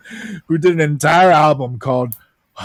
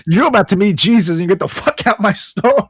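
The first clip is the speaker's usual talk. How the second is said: mildly raised, indignant send-off; mock angry clerk; 4 semitones higher, 3 dB louder than usual. Clerk ordering the kid out of the store, mock angry. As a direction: order him out with play-acted outrage.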